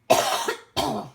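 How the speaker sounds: sharp real cough; dry cough. Real, not acted. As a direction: cough out loud suddenly. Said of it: "je tousse encore un peu".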